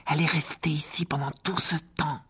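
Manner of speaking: delighted. A narrator's reading. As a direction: say it in delighted wonder. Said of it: "dit Ron d'un air ravi". (ravi, émerveillé)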